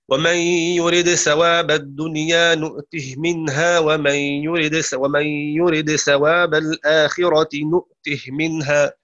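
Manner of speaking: measured chanted verse; Quran recitation. Acted. Teacher recites the verse to students in measured chant. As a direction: recite it with tajweed.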